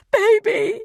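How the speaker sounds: a very high, loud burst of relief and pain; mother crying out to her son on the phone; anguished cry. Acted. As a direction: cry out to the child you can't reach. Mother hears her son's voice.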